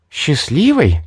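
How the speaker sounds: indignant snarl of a query; angry growl. A narrator's reading. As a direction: throw счастливой back as an outraged question. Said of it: "прорычала обозлившаяся зверюга".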